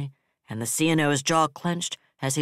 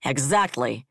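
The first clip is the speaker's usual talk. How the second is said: harsh. Acted. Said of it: "he said harshly".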